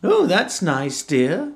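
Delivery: high, slow fake-pleased wife; insincere. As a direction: say it without meaning it. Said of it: "not really meaning it".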